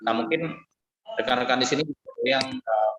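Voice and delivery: choppy call audio, words dropping out; broken video-call connection; voice breaking up. Real, not acted. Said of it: "Suaranya putus-putus".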